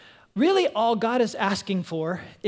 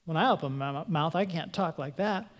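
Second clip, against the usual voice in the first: much softer, lower self-doubt; insecure inner voice; 4 semitones lower, 6 dB quieter than usual. Retold or imitated. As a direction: mutter it to yourself, discouraged. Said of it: "the teaching".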